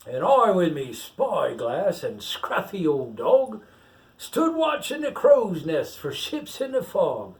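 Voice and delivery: pirate reading a picture book aloud; story reading. Acted. Pirate reads the rhyme to the child, storytelling lilt. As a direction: read the verse out like a bedtime tale.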